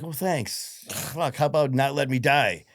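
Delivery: high mock thanks bursting into loud protest; sarcastic outrage. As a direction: retell an indignant, sarcastic comeback. Retort to hospice staff retold.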